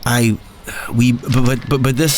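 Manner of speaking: halting, broken stammer; stuttering. Acted. Gary stammering in panic at the inspector. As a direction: trip over every word. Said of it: "He stuttered".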